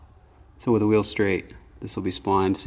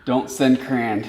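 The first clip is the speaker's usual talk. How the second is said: quoting; 4 semitones higher, 5 dB louder, slower than usual. Retold or imitated. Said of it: "The second you said".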